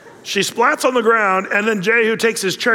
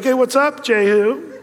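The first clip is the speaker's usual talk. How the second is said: Jezebel calling down; 5 semitones higher, slower than usual. Acted. Jezebel calls down to Jehu.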